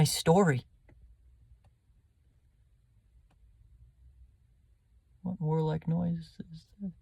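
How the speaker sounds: pleading with a friend while dying; dying Hamlet. Acted.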